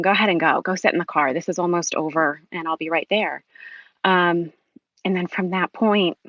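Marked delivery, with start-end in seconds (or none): none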